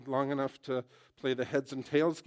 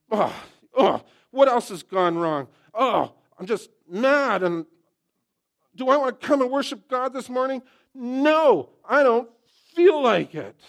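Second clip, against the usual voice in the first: much higher and louder, hammed-up sobbing complaint; mock crying whine; 10 semitones higher, 13 dB louder than usual. Preacher acting out not wanting to worship, hammed-up crying whine. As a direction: wail like a child refusing church.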